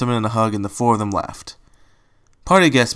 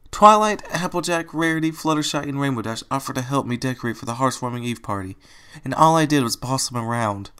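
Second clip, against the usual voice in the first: through tears; 4 semitones higher than usual. Acted. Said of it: "said through her tears".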